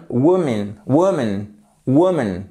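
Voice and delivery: "woman" stressed on first syllable, second reduced to schwa; teacher models "woman" with a weak ending; "woman", strong WU, swallowed -mun; unstressed schwa demo. Shown as a demonstration. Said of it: "non accentué. Donc, ça nous donne".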